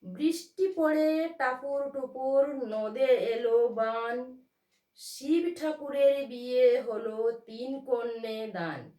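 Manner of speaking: put-on slow, sing-song chant of a children's rhyme; slow rhythmic rhyme reading; nursery rhyme recitation. Shown as a demonstration. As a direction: chant it slowly like a village rhyme, beat on each first syllable. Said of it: "আবার একটা উদাহরণ দিচ্ছি".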